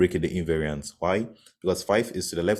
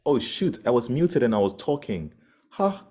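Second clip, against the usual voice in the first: surprised; 5 semitones higher than usual. Real, not acted. Realizes she was muted.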